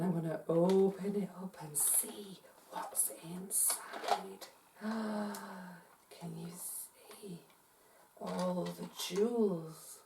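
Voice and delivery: soft, breathy half-whispered reveal; secretive hush, full of awe; hushed wonder. Pretend. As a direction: open it slowly with a gasp of wonder. Opening treasure chest with the children.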